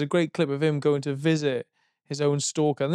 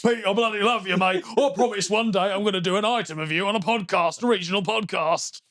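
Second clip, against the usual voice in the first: a hint of a besotted stalker, a little higher; lightly voiced adoring fan, pitched up; gushing fan; 4 semitones higher than usual. Fan gushing over a singer.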